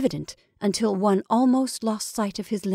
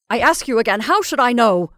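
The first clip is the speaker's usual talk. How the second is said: loud, raised exasperation; exasperated retort; 3 semitones higher, 6 dB louder than usual. Acted. Caroline to pleading sister, exasperated. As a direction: throw the question back.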